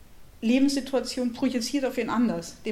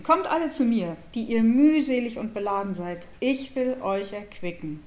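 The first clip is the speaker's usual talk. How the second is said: solemn scripture reading; 3 dB louder than usual. Shown as a demonstration. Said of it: "also ich lese es erstmal".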